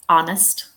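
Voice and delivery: honest said as "ON-ist", first syllable strong; silent H. Shown as a demonstration. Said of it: "we don't hear the H".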